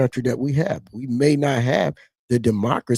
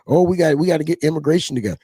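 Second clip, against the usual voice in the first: mock quote; 5 semitones higher, faster than usual. Mocking Hispanics' attitude.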